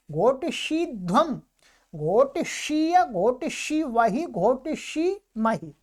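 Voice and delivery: measured, rhythmic grammar drill; paradigm recitation. Shown as a demonstration. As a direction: recite the verb forms evenly.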